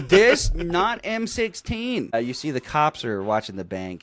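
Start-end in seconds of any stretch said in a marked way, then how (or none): 0.1-2.1 slow, loud, high talking-down voice; exaggerated patronizing instruction, dragged out; mock condescension. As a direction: spell it out as if to an idiot. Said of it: "being a condescending fucking asshole".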